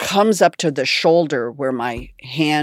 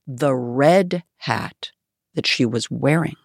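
normal talking voice

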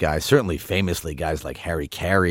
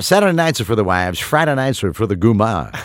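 baseball announcer voice. Retold or imitated. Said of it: "the generic baseball announcer voice".

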